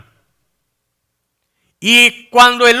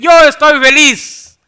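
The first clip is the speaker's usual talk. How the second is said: happy rabbi; 5 semitones higher, 4 dB louder than usual. Retold or imitated. Rejoicing rabbi in retold anecdote.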